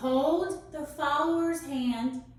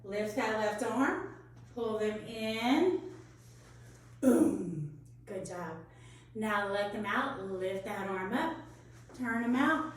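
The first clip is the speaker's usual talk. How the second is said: softer, slow step-by-step cue; slow walkthrough; 4 semitones lower, 5 dB quieter than usual. Shown as a demonstration. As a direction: guide them gently through slowly. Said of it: "try that slow again".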